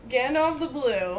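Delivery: amused echo of the silly name; laughing repeat. Real, not acted. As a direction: repeat Gandalf the Blue while chuckling at it.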